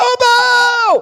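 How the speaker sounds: very high, drawn-out crying call, like a shout. Retelling the prophets answering the call to shout louder: imitating a loud shout. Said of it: "grita mais alto".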